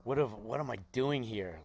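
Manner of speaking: a lightly voiced annoyed rock star; imitating a grumpy singer.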